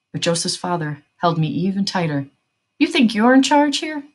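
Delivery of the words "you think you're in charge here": high, loud, scornful question; raised-voice taunt at a rival; menacing challenge. A narrator's reading. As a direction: throw it out as an angry challenge. Armed father challenges the other.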